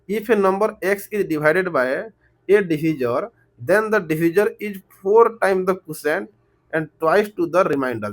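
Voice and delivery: very slow, word by word reading of the question. Real, not acted. Teacher reading the word problem aloud to students, very slowly. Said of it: "इतना धीरे-धीरे बोल रहा हूँ".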